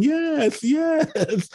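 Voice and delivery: high, light polite yeses, imitating himself at the church door; polite nodding yes. A hammed-up, eager yes yes, pitched well up. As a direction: pastor retelling how he smiles and nods at greeters, mock polite agreement. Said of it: "I'm smiling and nodding and saying".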